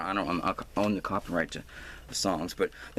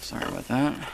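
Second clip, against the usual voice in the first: put-on Hagrid accent; 3 semitones higher than usual. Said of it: "Sound like Hagrid".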